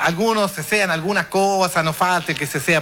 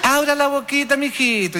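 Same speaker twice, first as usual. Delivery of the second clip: higher, chuckling sweet-talk to the dog; mother tempting the dog with bread, higher and laughing; coaxing with a laugh; 6 semitones higher than usual. Retold or imitated. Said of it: "Y mi tía Manolo".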